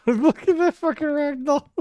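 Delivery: high-pitched laughter through the words; cracking up at the ragdoll; laughing. Real, not acted.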